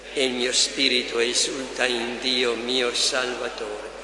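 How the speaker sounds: even, measured recitation of a canticle; communal prayer recitation. Real, not acted. Leading the faithful in Maria's canticle, measured prayer recitation. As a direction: recite it steadily with little pitch movement, pausing after each verse.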